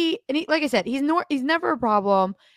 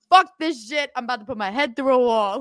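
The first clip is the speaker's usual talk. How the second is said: frustrated outburst; 3 semitones higher than usual. Retold or imitated. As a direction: blow up in frustration. Retold angry reply to manager.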